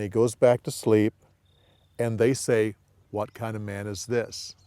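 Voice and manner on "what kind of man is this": softly, in quiet wonder; hushed awe. Shown as a demonstration. Teacher voicing awed disciples, hushed. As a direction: breathe it out, amazed.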